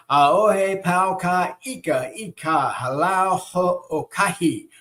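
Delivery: slow, careful Hawaiian proverb read in a Southern American accent; Southern-accented Hawaiian, each vowel spelled out. Real, not acted. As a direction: sound out every vowel slowly, Southern drawl showing. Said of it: "In his southern accent".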